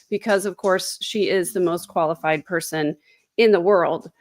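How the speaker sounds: dry, understated sarcasm; mock praise, delivered almost straight; sarcastic. Real, not acted. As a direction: say it as if obviously absurd. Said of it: "That's sarcasm".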